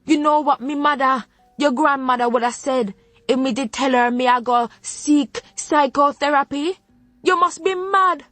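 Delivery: rising, high-pitched scolding in a Jamaican lilt; furious Jamaican grandmother. Acted. Grandmother berating granddaughter over therapy, furious Jamaican scolding.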